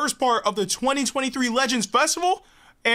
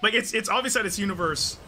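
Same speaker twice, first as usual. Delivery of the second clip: quiet murmur; 7 semitones lower, 10 dB quieter than usual. Real, not acted. Quiet watching reaction video.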